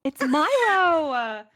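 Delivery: high, loud and slowly stretched out; gleeful exclamation. Real, not acted. Cast member echoing the answer, drawn-out gleeful cry. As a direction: drag the name out with glee. Laughing exclamation after "It's Milo.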